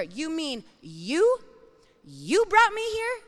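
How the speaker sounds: rising to a high, loud disbelieving question; can't believe it, pitch jumping up; incredulous. Retold or imitated. Preacher questioning God in disbelief, incredulous. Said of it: "I read the Bible and I went".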